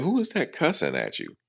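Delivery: high-pitched imitation of a startled mom; mother's alarmed question. Mom overhearing the call on speakerphone, high imitated voice. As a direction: mimic mom's high, surprised voice. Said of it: "She said".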